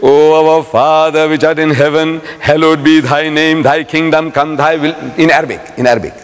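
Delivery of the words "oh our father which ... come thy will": slow, measured mock recitation; recited prayer. Speaker reads out the sticker's prayer, slow intoned recitation. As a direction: intone the prayer on a level note.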